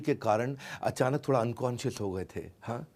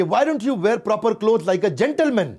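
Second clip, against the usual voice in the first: higher, louder, very slow English; mocking Briton; 7 semitones higher, 6 dB louder, much slower than usual. Briton repeats the jibe, slow and haughty.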